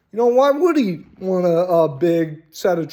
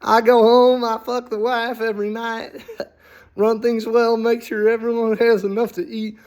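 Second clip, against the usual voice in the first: cheerful merchant; 4 semitones higher than usual. Pretend. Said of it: "and you're like".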